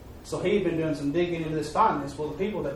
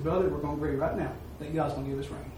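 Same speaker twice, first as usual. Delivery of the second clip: quiet agreement; 2 semitones lower, 5 dB quieter, faster than usual. Retold or imitated. Two brothers quietly agreeing in prayer for rain, soft. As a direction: say it softly, just between two men. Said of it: "not a loud proclamation, nothing".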